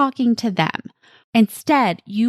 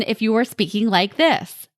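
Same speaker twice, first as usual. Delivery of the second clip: mild demonstration of an irritated parent; annoyed tone. Shown as a demonstration. Parent showing the tone to avoid with a child, mildly annoyed. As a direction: let a touch of annoyance into it. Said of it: "That tone communicates your annoyance with them".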